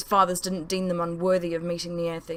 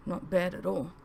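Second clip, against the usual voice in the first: whispered; 7 dB quieter than usual. Acted.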